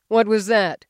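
sharp demanding question; husband jolted awake, demanding to know. A narrator's reading. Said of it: "he demanded".

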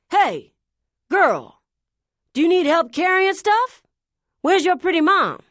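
loud high call from behind. Acted. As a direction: shout after someone walking away. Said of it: "he called after me".

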